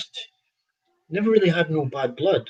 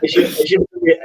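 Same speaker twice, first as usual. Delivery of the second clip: laughing; 11 semitones higher, 4 dB louder than usual. Real, not acted. Laughing at own clumsy words.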